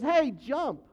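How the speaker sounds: a faceless voice loudly calling out jump; careless command. Retold or imitated. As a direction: bark it like a careless stranger. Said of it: "an unknown God that just says".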